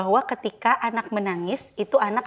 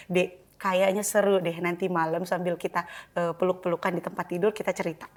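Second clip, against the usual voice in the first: tender mother; 4 semitones lower, 5 dB quieter than usual. Shown as a demonstration. Mother soothing child at bedtime.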